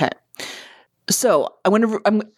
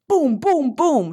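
retold booms; 7 semitones higher, much slower than usual. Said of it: "I hear over my meditation music".

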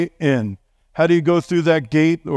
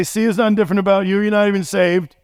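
higher, fast taunting voice of the tempter; accusing enemy; 5 semitones higher, faster than usual. Acted. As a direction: needle them like an inner accuser. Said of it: "the enemy will come and say".

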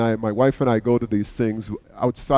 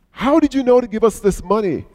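surprised; 9 semitones higher than usual. Retold or imitated. Woman surprised by gift.

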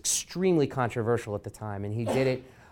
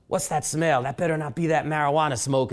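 mock stern scolding, higher; lightly voiced Ali disapproving of the marijuana smell; quoting Ali; 4 semitones higher, 3 dB louder than usual. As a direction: Ali scolding the room about smoke, higher and louder. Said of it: "he would say things like".

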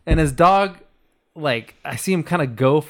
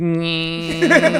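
imitated window noise; 3 semitones higher than usual. Driver mimicking his window rolling down, drawn-out whine. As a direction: imitate a slowly lowering car window.

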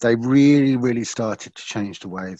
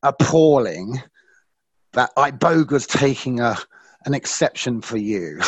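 mocking inner voice; 4 semitones higher, slower than usual. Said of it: "the voice in my head would go".

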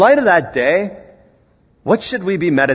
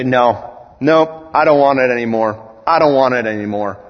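renouncing believer; 3 semitones lower than usual. Pretend. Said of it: "call it out ... and say".

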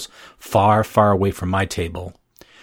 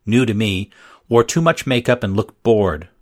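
ordinary delivery

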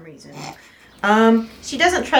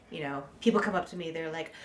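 usual speaking voice

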